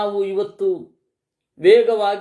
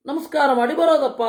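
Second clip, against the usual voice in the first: quick, higher-pitched persuasion; light coaxing; 6 semitones higher, faster than usual. Acted. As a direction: coax lightly, as if to a child. Sita coaxes weeping Lakshmana.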